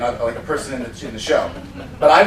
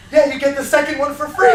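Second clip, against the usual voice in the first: mimicking demonstrator; 9 semitones higher, 3 dB louder than usual. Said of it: "she goes".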